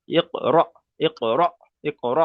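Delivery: ইক র drilled with a push on each sakin letter; jolted letters. Shown as a demonstration. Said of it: "ধাক্কা মারতে হবে".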